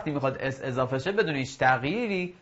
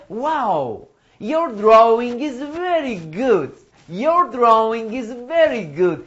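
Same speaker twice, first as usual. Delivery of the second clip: very slow, higher model line for repeating; slow model reading; 7 semitones higher, 4 dB louder, much slower than usual. Shown as a demonstration. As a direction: say it slowly for the class to repeat. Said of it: "تکرار کنید بعد من". (خواندن آهسته برای تکرار)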